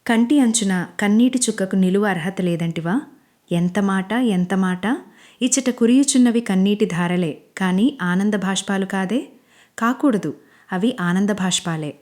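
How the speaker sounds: lightly voiced old-style stage king, slowing at the end; mock-theatrical questions in a stage hero's manner; dramatic stage dialogue. Manish teasing crying Anjali in mild mock stage voice. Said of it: "పెద్ద పెద్ద నాటకీయ డైలాగులు చెప్తాడు".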